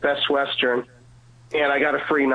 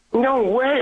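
amazed; 9 semitones higher than usual. Retold or imitated. Clerk stunned her prayer was answered so fast, high disbelief. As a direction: blurt it out, stunned.

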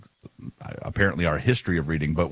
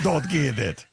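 a higher, put-on Kansas accent; John Senior's Kansas accent; 7 semitones higher, slower than usual. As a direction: echo the professor in a Kansas accent. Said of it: "that's his Kansas accent".

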